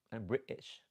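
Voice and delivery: imitated British accent on "British". Shown as a demonstration. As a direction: put on British, punching "British". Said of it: "I love the accent".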